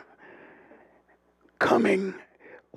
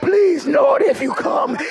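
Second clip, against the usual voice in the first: mock long prayer; 3 semitones higher than usual. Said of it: "I don't have time to be saying".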